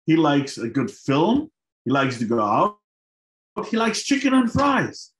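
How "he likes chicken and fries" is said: emphatic exclamation. Real, not acted. Climax of the realization.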